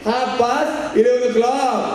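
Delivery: slow careful English again; mock English reply. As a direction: recite it slowly, proud of it. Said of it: "ती म्हणली". (हळू इंग्रजी, परदेशी बाईची नक्कल)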